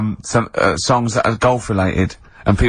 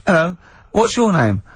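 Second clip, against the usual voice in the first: higher, lightly voiced comic neighbour greeting; a hint of a cartoon host, higher; comic character voice; 8 semitones higher than usual. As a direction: greet the neighbour in a silly high voice. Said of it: "didn't even do the Chinese accent that time".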